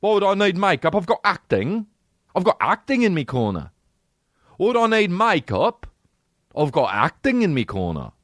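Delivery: high, posh-mock British actor; a mock British actor boasting; British accent. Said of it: "you'd be like".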